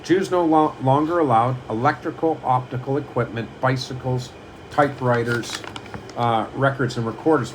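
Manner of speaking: a deliberate, slightly slowed list reading; read slowly. Shown as a demonstration. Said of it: "I'll read it slower".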